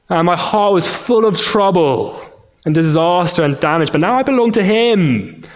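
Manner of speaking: preacher reciting the catechism with passion; fervent recitation. Acted. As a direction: recite it with growing fervour. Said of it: "The Heidelberg Catechism, question one".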